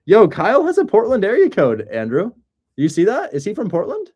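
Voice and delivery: high, loud, eager exclaiming; excited. Real, not acted. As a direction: call it out, thrilled. Excited at Portland area code.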